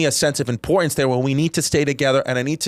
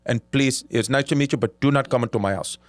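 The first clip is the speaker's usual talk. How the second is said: put-on Indian accent. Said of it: "great Indian accent".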